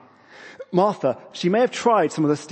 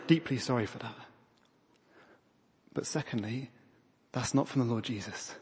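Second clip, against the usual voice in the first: sincere apology; 2 semitones lower, 7 dB quieter than usual. Real, not acted. Pastor apologising to women who felt undervalued, softly sincere. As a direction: gently say sorry and mean it.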